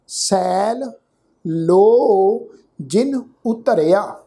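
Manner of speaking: slow, measured recitation with pauses between phrases; scripture recitation. Shown as a demonstration. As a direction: recite each word deliberately, vowels drawn out. (ਠਹਿਰ ਠਹਿਰ ਕੇ ਗੁਰਬਾਣੀ ਪਾਠ)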